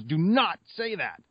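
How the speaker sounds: high, slow warning wife voice, lightly put on; mock superstitious wife. Wife begging husband not to jinx the win, slow high plea. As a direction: draw it out high like a worried wife. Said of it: "She goes".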